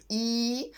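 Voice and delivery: «і» as a long ee; long I sound. Shown as a demonstration. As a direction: draw out the vowel «і». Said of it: "як довгий звук". (довгий звук «і»)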